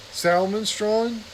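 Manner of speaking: slow questioning echo, rising; puzzled repeat. Acted. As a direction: sound out a strange word, wondering. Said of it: "Martin repeated the strange sounding word".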